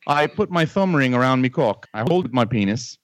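hammed-up Australian accent; fake Australian accent. Prank caller posing as a visitor from Australia, fake Australian accent. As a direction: put on a shaky-quality amateur Australian accent. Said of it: "you are the most shitty Australian person".

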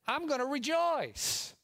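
high, loud, drawn-out cry of rejoicing; jubilant declaration. Real, not acted. Preacher resolving before the church to rejoice, jubilant. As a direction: proclaim it slowly at a high pitch.

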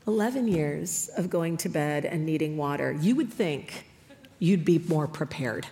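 low, soft deadpan; understated mock disbelief; restrained exasperation. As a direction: grumble quietly as a worn-out mother. Exasperated mother's retort, acted.

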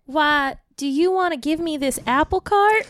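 light Southern lilt; Southern accent. Acted. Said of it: "he was trying to do Southern".

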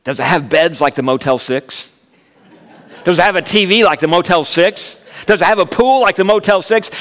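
lightly voiced eager children, rising in pitch; excited kids. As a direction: build eagerness question by question. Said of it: "our kids were so excited".

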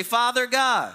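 like you mean it. Shown as a demonstration. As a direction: lead the congregation with heartfelt conviction. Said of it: "say it like you mean it".

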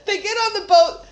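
high giggly narration; laughing through it. Real, not acted. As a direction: let the giggles spill into the words. Giggling retelling.

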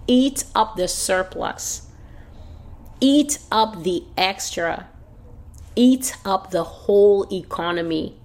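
emphatic preaching, each command set apart; slow, forceful incantation of judgment; prophetic command. Acted. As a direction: hammer out drawn-out orders as the Lord's decree. Voices the Lord commanding inflation.

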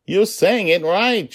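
put-on high, loud, slow child's voice; delighted daughter reassuring her father; gleeful, high-pitched insistence; amused little girl. A narrator's reading. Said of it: "she laughed".

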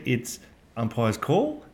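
slow, with a doubtful rise at the end on call; umpire's call drawn out and lifting like a question; rising question tune. Retold or imitated. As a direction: say umpire's call slowly as though asking. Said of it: "he's not really sure".

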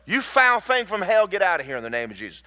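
high, loud command to a demon; acted exorcism order, starting loud then racing; acted rebuke. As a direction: cast it out forcefully in rapid fire. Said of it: "Stop right there and go".

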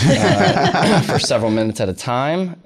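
bursts into a loud laugh, then laughs through the words; laughing at his own failures. Real, not acted. Comedian laughing while telling the host about bombing on stage.

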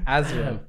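"as well" split into two stressed words; imitated South African "as well"; two-word emphasis. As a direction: stress both "as" and "well" separately. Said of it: "It's like it's two words".

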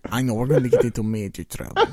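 low put-on Eastern European accent; muddled Russian-style accent with a laugh; mock Slovak accent. Agreeing to stop accents, still in mock Slovak accent. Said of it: "stop doing accents now".

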